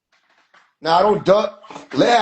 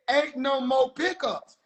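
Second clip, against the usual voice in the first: Ain't no more pickups dragged out slowly; slow emphatic quote; 3 semitones higher, 3 dB quieter, slower than usual. Retold or imitated. Telling doubters slowly what was said. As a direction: spell it out slowly so they believe it. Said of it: "These folks said".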